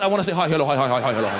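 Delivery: mock formal Persian greeting; bowing greeting.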